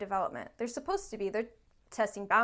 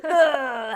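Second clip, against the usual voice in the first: mock groan; 3 semitones higher, 12 dB louder than usual. Acts out parents seeing screen time.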